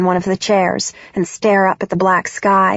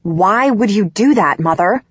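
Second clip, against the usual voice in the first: raised, pointed question to her mother; loud question. Acted. Daughter confronting her mother on the phone, loudly. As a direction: ask it loud and sharp. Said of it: "I question loudly".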